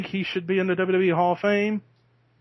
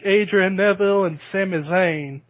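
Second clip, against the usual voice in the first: put-on Southern Tennessee accent; 3 semitones higher, 3 dB louder than usual. Imitating Marco saying wrestlers' names, light Southern Tennessee accent. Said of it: "the Southern Tennessee accent".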